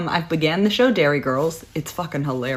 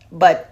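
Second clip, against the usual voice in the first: bagpipe imitation; 7 dB louder than usual. Bagpipe mimicry after bagpipe joke.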